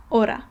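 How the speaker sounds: "hora," as ora, H unspoken; silent H. Shown as a demonstration. Teacher showing the unread H, "hora," said as ora. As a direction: start "hora," straight on the O. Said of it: "you just don't read it".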